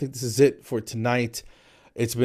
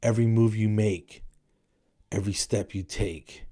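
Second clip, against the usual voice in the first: creepy spoken lyrics; 4 dB quieter than usual. Shown as a demonstration. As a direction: say it like a stalker, dropping to a whisper. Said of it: "you just say them, you don't sing it".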